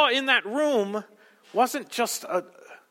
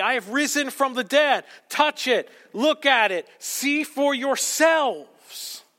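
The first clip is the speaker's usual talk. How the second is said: voicing Jesus; 3 semitones higher than usual. Jesus voiced showing his wounds.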